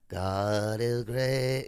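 very slow, drawn-out imitation of a creepy old man; creepy old preacher. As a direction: stretch each word out like the eerie pilgrim man from Poltergeist Two. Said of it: "that creepy man that wore that, like, pilgrim outfit".

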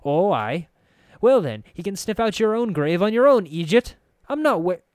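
high, loud, scornful brogue; sharp snapping. Acted. Anna refusing to guide the narrator, sharp angry brogue. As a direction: lash out in a thick brogue. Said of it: "Her tongue snapped, sharp as".

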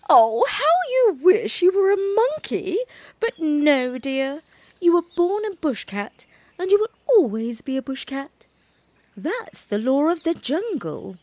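a mother cat teasing her little one. A narrator's reading. Mother cat gently corrects her baby, lightly amused. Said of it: "Mother Bush Cat laughed and said".

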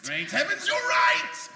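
loud high hammy surprise; surprised exclamation. Acted. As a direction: gasp out the discovery. Hero's sudden realization.

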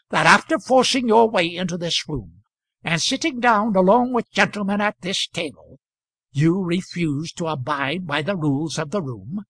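a touch of bluster at the stranger; pompous Moulder. Acted. Moulder lecturing the stranger on the rules, mildly indignant.

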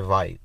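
"white" said with a V, as "vite". Shown as a demonstration. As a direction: start "white" on a V sound. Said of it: "W's are V's".

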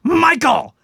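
high, loud call up the stairs; aunt screaming a name. Retold or imitated. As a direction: shout the name like a mother calling. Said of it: "my aunt would scream my cousin's name".

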